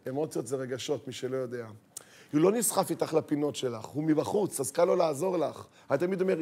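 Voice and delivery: usual speaking voice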